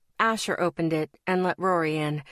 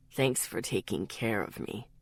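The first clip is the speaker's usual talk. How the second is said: low, soft, sleepy mumble; mumbled; 10 semitones lower, 7 dB quieter than usual. A narrator's reading. Sick friend thanking Lexi, low mumble. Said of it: "he mumbled".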